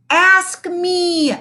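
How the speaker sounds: put-on high kid voice calling out; eager cry. A narrator's reading. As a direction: beg to be asked. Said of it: "cried Calvin".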